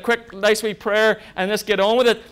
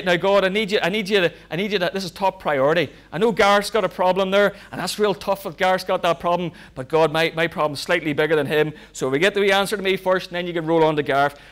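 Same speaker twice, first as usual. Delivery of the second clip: mock selfish prayer; faster than usual. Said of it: "You don't need to say".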